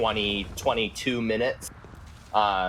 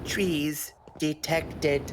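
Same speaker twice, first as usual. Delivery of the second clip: talking while inhaling; 4 semitones higher, 3 dB quieter, much slower than usual. Shown as a demonstration. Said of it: "I couldn't even do it that well".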